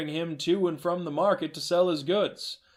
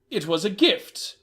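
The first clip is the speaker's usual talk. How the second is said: a hint of a stunned grandson; grateful, higher and a bit louder; stammered thanks as the pretend grandson; young man's voice; 5 semitones higher, 4 dB louder than usual. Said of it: "Mister Hayworth said".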